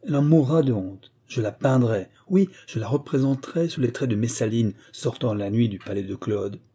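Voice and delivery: jealous husband ranting at his wife; raging threats. Acted. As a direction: spit out the threats, seething with vanity. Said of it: "d'une voix tonnante".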